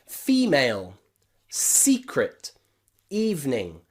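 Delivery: "Female, secret, evening" each stressed on the opening "ee"; first-syllable stress. Shown as a demonstration. Teacher recaps example words for learners, stressed first syllable. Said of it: "The, the syllable with the letter E at the beginning is stressed".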